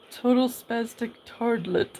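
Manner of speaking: laughing through the words; amused giggle while repeating. Real, not acted.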